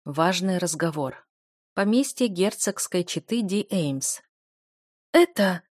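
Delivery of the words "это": gasping for air. A narrator's reading. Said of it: "захлёбывалась воздухом герцогиня".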